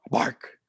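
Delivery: the word barked like a dog. Acted. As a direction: bark it out like a dog. Says dog's bark in poem.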